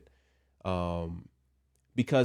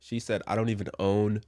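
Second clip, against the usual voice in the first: sick voice. Real, not acted. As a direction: voice worn from being sick. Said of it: "I'm so sick".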